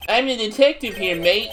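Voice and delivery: detective with a put-on Aussie twang; mild Australian accent; Australian-ish accent. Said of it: "so I did the accent".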